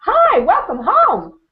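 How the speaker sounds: high, loud, drawn-out mock greeting; gushing, stretched-out hello; effusive welcome. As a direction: sing out a big pretend welcome. Voicing a welcoming house.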